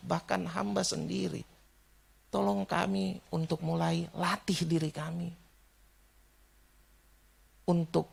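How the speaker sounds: measured, sincere praying voice with pauses; earnest prayer. Real, not acted. Preacher praying for the congregation, earnest and measured.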